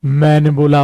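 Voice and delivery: usual speaking voice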